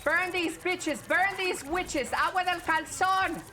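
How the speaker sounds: slow, high battle yell; shouting. Real, not acted. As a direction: roar it out at the enemy. Hyped yelling during team fight.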